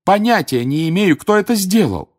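loud, high protest; frantic, rising denial; fervent. A narrator's reading. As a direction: plead innocence with force. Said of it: "истово произнёс Гарри".

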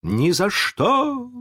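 very high, drawn-out refusal; defiant outburst. A narrator's reading. Wendy blurts refusal at the pirates, defiant. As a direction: cry it out uncontrollably as a girl. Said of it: "Венди опять не сдержалась".

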